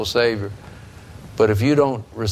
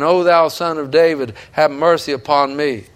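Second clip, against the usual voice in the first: pleading cry; 4 semitones higher than usual. Retold or imitated. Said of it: "why was he screaming and crying".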